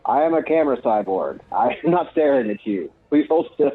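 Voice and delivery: slow deliberate robot voice. Acted. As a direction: speak slowly like a cyborg. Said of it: "you gotta do the Aaron Hansen robot voice".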